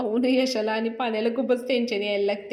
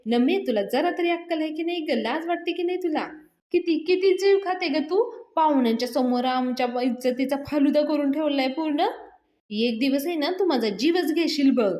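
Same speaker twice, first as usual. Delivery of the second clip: scolding; 4 semitones higher than usual. Acted. Aunt scolding her daughter.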